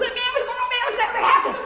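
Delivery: acted, very high, fast, excited voice. Speaker imitates a man he knows as he gets excited: imitating an excited high voice. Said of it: "I can do his voice perfect".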